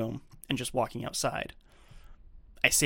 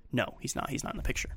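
hushed reply; 7 dB quieter than usual. Retold or imitated. Patient's quiet answer retold.

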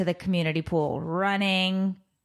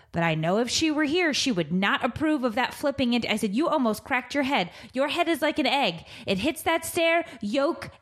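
pitched higher, a mock yell rather than a real scream; retold scolding yell; 4 semitones higher than usual. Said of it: "as I'm screaming this across the pool".

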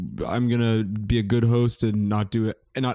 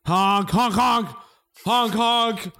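silly clown honk; 11 semitones higher, much slower than usual. Retold or imitated. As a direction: honk like a circus clown horn. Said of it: "I'll just make a, a telltale sound".

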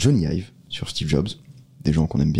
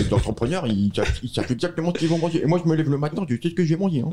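much higher smug Romain voice; Romain impression; 9 semitones higher, faster than usual. Imitating Romain to tease him on the podcast, much higher. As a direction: boast like a self-assured entrepreneur, pitched far up. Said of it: "Léo est celui qui t'imite le mieux".

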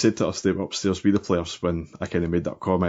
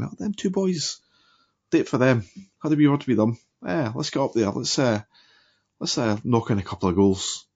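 higher, playful put-on voice of the players; imagined players' thoughts; 5 semitones higher than usual. Host voicing the players' imagined thoughts, playful high voice. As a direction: voice the two boys egging each other on. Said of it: "They were thinking".

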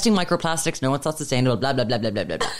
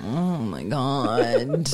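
exasperated; 4 semitones lower, slower than usual. Retold or imitated. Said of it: "I'm like".

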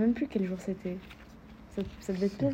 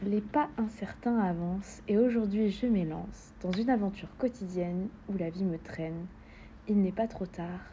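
measured verse recitation; even, deliberate poetry reading; poem reading. Acted. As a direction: recite it steadily, phrase by phrase. Reads a poem aloud.

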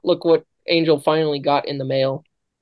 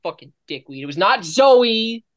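building exasperation; 3 semitones higher, 4 dB louder than usual. Real, not acted. Building list of denials.

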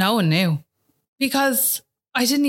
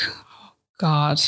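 breathless whisper, voice dropped low; whispered in shock; 5 semitones lower than usual. Retold or imitated. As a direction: whisper it like the air left you. Scan news, crying in hospital.

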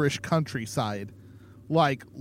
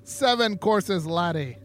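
put-on botched Irish accent; 5 semitones higher than usual. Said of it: "I can't do Irish accents".

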